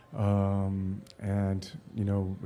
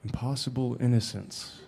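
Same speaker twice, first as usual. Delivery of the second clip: soft, musing repeat; musing echo; 7 dB quieter than usual. Retold or imitated. Actor pondering the director's compliment, quiet musing. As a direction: turn the phrase over quietly to yourself. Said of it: "And I was like".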